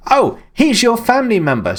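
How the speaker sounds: sarcastic, high sing-song; mock sincere. Mocking the game's plot to chat, sarcastic.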